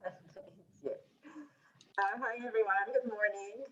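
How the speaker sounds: congested, strained voice from allergies; allergy voice. Real, not acted. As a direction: talk through a bad allergy day. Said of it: "Excuse my voice. I have really bad allergies today".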